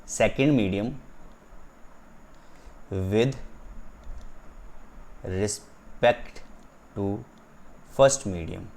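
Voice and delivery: "second medium ... with ... respect ... to" with long pauses between; word-by-word emphasis. Shown as a demonstration. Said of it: "मैं इस पे इतना जोर इसलिए दे रहा हूँ". ("second medium with respect to first medium" रुक-रुक कर)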